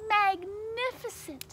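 high, loud, drawn-out praise; loud flattering exclamation; admiring cheer. A narrator's reading. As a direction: gush it slowly and grandly. Princess cheers the dragon on.

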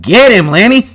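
high, full-voiced holler; urgent shouted order; yelling. A narrator's reading. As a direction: yell it through cupped hands. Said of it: "cupped his hands around his mouth and yelled".

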